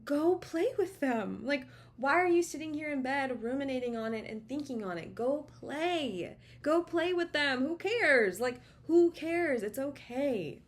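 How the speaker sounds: imitating the wife cheering her on to go create; wife's urging voice. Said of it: "And my wife was like".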